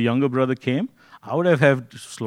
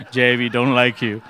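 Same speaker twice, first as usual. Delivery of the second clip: mock verdict; 4 dB louder than usual. Teasing Jay, the panel decided.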